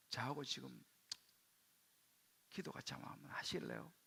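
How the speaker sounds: soft, low, careful invitation; tentative, hushed request; hesitant proposal. Retold or imitated. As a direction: gently ask your father, pausing between phrases. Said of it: "카드를 힘들게 던졌어요".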